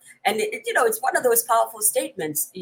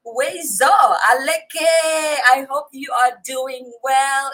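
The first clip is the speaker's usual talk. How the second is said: raised, higher, louder hail; calling out a greeting; 5 semitones higher, 7 dB louder than usual. Real, not acted. Host hailing Ewe-speaking viewers, calling out. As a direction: call out a big hearty welcome.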